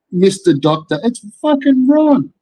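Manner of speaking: a high, put-on mock of Ron's funny voice. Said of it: "if you listen to the fucking".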